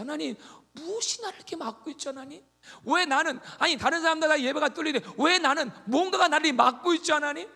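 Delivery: high, loud anguished asking; urgent prayer. Retold or imitated. Believer pleading loudly to God about a blocked path. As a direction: cry out asking why you're blocked.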